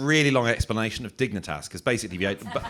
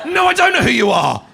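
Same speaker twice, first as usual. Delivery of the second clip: much higher, louder bewildered reply; flustered refusal; 13 semitones higher, 11 dB louder than usual. Retold or imitated. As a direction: squeal it back in panic. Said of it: "hone in on you and go".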